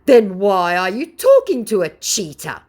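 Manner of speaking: high, loud scammer whine; mock scammer voice. Vlogger quoting the scammer, high and loud. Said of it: "asked my scammer".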